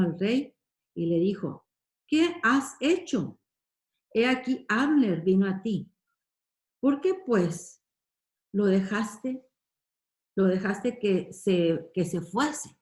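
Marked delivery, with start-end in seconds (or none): 2.1-12.8 acting out a nephew's insolent rebuke; disrespectful reproach. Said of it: "qué forma tan irrespetuosa como le va a hablar".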